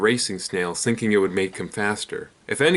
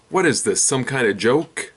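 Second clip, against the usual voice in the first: bartender; 3 semitones higher, 5 dB louder than usual. Acted. Bartender asks.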